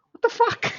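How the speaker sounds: retelling a stunned reaction to being called on; shocked disbelief. Retold or imitated. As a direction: blurt it like you were ambushed. Caught off guard by sudden request.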